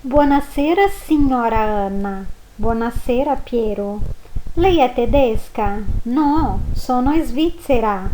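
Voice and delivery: "Buonasera, signora Anna" read clearly; model dialogue. Shown as a demonstration. Teacher reading a short dialogue for pronunciation. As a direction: read both parts carefully. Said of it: "diálogo pra você treinar a pronúncia".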